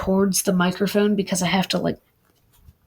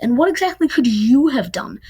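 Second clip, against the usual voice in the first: louder, sharp retort; a louder angry comeback in the fight; shot back; 4 semitones higher, 4 dB louder than usual. Acted. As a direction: fire the question straight back at him. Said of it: "Nico shot back".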